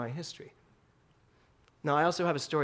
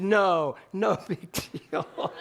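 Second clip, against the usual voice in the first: slow, laughing comfort; tender reassurance; 2 semitones higher, much slower than usual. Retold or imitated. Mother hugging son, slow and tender with a laugh. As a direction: hug the words into him. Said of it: "hugged him and said".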